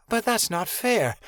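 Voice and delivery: put-on high, slow childish whine; whining. A narrator's reading. Wounded girl complaining to the griffin, high slow whine. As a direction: drag it out like a sulking child. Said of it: "Regan whined".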